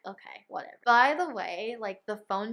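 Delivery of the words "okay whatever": breathy, defeated okay whatever under the breath; whispered dismissal. Retold or imitated. Brushing off the proof of cheating, whispered. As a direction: let it go in a near-whisper. Giving up on the argument.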